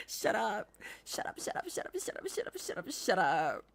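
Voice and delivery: giggling. Real, not acted. Giggling repeated shut up.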